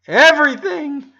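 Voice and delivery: high, loud eager cry; excited shout. A narrator's reading. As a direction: demand it all at once. Sisters demanding details.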